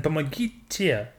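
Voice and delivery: помогите said slowly, syllable by syllable; teaching pronunciation. Shown as a demonstration. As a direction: model помогите slowly for a learner. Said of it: "at the end means that it's a formal".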